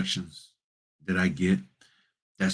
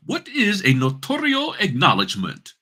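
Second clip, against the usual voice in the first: much higher, put-on British voice; fake British accent; 12 semitones higher than usual. Shown as a demonstration. Notary asks Gemini so it understands, fake British accent. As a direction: ask it in an exaggerated high British accent. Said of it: "in my little fake British accent".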